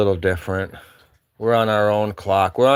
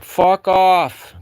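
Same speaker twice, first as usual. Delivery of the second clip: higher, louder mock shout; retold yell back; 8 semitones higher, 5 dB louder than usual. Musher re-enacting his answer to yelling townspeople, mock shout. People would yell out their windows.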